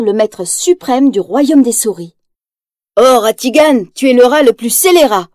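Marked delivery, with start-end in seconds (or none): 3.0-5.3 a touch of gleeful cheering, a bit louder; lightly voiced henchmouse delighting in the boss. Henchmouse flattering Ratigan, mildly gleeful. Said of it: "se réjouit".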